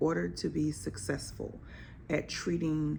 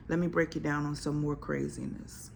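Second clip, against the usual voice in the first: ordinary talk, nothing marked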